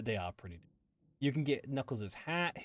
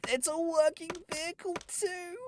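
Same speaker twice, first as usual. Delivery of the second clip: excited. Real, not acted. Showing off the crafted car.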